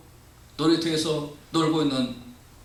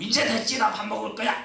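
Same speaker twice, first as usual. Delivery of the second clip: put-on huffy child; 6 semitones higher than usual. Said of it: "씩씩대고 앉아가지고".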